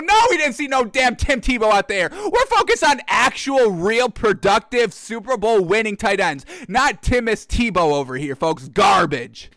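indignant rant. Real, not acted. Rant against Tim Tebow.

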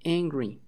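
"angry" modelled for repetition, falling at the end; "angry" as a standalone English vocabulary word; model pronunciation. Shown as a demonstration. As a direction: say "angry" as a clear word for learners to copy. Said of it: "One more time".

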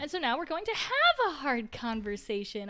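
bright, cheery delivery of bad news; sunshine voice. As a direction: say it with sunshine in your voice. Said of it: "I say with sunshine in my voice".

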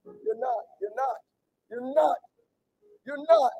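soft, falling "you're not"; hushed repetition. Real, not acted. Preacher quietly repeating to the hurting, hushed. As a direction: let it drop to near a murmur. Softened repeat after shouting.

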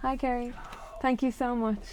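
hushed, grateful thanks off to the side; soft aside. Real, not acted. Thanking husband for bringing the charger, softly. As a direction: speak softly away from the listeners.

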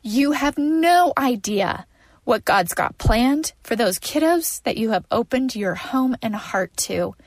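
tearful, voice full of crying; snotty crying. Real, not acted. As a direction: speak through ugly tears. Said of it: "you guys, I'm ugly crying".

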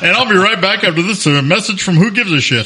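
radio announcer signing off for a break; polished radio read with a laugh in it. Shown as a demonstration. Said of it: "This is the normal announcer voice".

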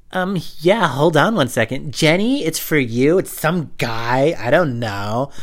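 a hammed-up mom fetching her kid; parent at the phone. Parent answering, calls Jenny.

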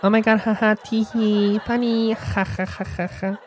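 high mock giggling laugh; tittering fake laugh, ha ha; soundboard laughter. Shown as a demonstration. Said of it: "and then I have my laughter".

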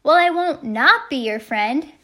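high, loud playful retort; screamed back. A narrator's reading. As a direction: yell it right back in his face. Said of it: "I screamed right back into his face".

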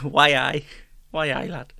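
tentative Geordie catchphrase; amateur Geordie twang; Geordie accent. Shown as a demonstration. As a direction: try out a rough Geordie. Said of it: "Geordie accent".

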